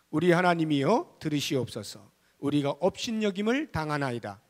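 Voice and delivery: measured, projected congregational reading; scripture read aloud. Acted. Pastor leading the reading of Nehemiah's prayer, firm recitation. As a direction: read the prayer out firmly, phrase by phrase.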